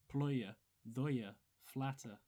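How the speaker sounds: "ployer, thoyer, flatter" with no R at the word ends; Bronx R-dropping. Shown as a demonstration. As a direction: slowly drop the final R's in "ployer, thoyer, flatter". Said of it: "R's almost don't exist at the end".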